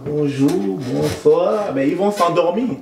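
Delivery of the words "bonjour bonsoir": dull static greeting. Shown as a demonstration. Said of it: "si vous êtes juste là".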